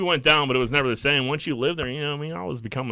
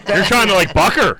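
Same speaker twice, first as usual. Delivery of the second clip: laughing; 10 semitones higher, 9 dB louder than usual. Real, not acted. Laughing reply to story.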